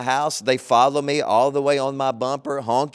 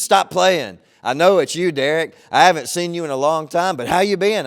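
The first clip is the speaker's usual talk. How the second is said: insistent stranger; 3 semitones higher, 4 dB louder than usual. Retold or imitated. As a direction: insist with friendly certainty. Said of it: "He goes".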